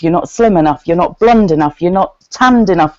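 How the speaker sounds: ordinary talk, nothing marked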